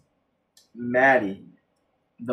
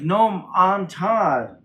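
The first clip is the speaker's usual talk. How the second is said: drawn-out, higher mock cry; mock yell; 5 semitones higher, much slower than usual. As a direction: imitate him yelling, slowly. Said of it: "they're both yelling".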